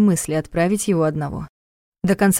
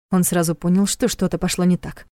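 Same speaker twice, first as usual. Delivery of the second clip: plain reading voice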